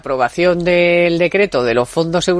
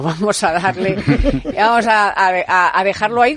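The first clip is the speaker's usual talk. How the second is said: laughing; 3 semitones higher than usual. Real, not acted. Laughing at Abascal's excuse.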